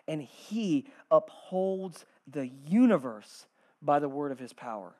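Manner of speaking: slow, measured reading with long pauses; scripture reading. Acted. Preacher reading Hebrews to the congregation, slow and measured. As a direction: read it out gravely, letting each phrase settle.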